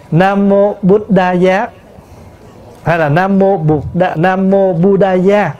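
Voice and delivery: slow "Buddhaya", sounded bu-da-ya; Sanskrit reading. Shown as a demonstration. Monk demonstrating the original for listeners, slow Sanskrit "Buddhaya". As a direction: recite "Nam Mô Buddhaya" slowly, syllable by syllable. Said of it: "phiên âm từ tiếng Phạn".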